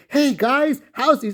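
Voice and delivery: high, bubbly, over-eager greeting; a chirpy imitation of Gerard; cheery guy imitation. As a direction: mimic a grinning people-pleaser. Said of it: "he's that cheery, cheery guy".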